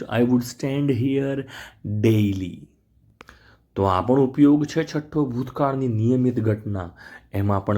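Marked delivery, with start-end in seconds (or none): 0.0-2.6 each word spelt out slowly; slow dictation pace. Shown as a demonstration. Teacher dictating to the class, slow. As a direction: read it slowly for the class to copy. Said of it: "હું કાયમ અહીંયા ઊભો રહેતો રોજ".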